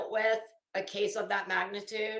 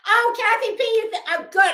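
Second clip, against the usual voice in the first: bursting out laughing, much higher and louder; laughing delight; 10 semitones higher, 10 dB louder than usual. Real, not acted. Host laughing while reading a viewer's chat comment.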